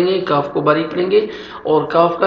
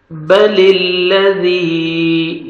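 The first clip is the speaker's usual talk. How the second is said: slow, melodic tajweed chanting; Quran recitation; much slower than usual. Shown as a demonstration. Teacher reciting the verse for students to repeat.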